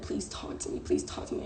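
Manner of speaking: softly retold pleading; retold begging. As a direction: quietly imitate begging him to talk. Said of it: "I'm on my knees begging this man".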